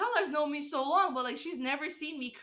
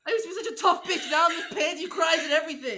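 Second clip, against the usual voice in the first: laughing self-mockery; 4 semitones higher, 4 dB louder than usual. Real, not acted. Joking about crying, laughing.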